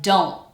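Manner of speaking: DON'T ending in a throat catch; glottal stop t. Shown as a demonstration. Teacher gives example words, final glottal stop. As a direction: leave the t of DON'T unreleased. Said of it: "when the T comes at the end".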